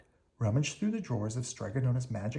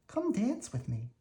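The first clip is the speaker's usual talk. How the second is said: ladies crying out; 8 semitones higher than usual. A narrator's reading. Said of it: "each of them cried".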